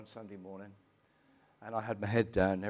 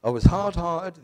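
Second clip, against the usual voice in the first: forceful emphasis; 6 semitones higher, 14 dB louder, slower than usual. Real, not acted. Emphatic confession of past hardness.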